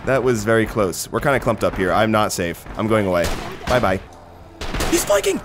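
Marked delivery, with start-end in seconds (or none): 4.9-5.4 call out. Real, not acted. Calling out enemy flank.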